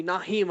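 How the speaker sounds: "Naheem" as na-HEEM with an audible h; "Naheem" rhyming with Jaheim; others' mispronunciation. Retold or imitated. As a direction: put a breathy h in the middle of "Naheem". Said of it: "I've heard people call me".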